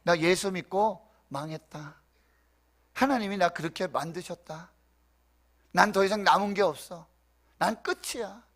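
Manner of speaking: resigned lament. Acted. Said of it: "편하게 말씀드렸지만 이 말이 이 말이에요".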